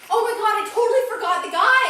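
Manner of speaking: laughing. Real, not acted. Laughing at forgetting the guy.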